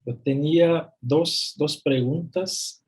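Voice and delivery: rusty non-native Spanish accent; american accent spanish. Real, not acted. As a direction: speak Spanish carefully with a foreign accent. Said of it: "mi español está, se queda un poco oxidado".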